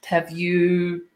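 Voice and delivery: normal talking voice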